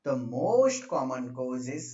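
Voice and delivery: "most common cause" stretched out very slowly; teacher spelling out "loss of uterine tone" unhurriedly for note-takers; slow dictation. Real, not acted. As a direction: dictate it at writing speed, drawing out "most". Dictating while writing it out.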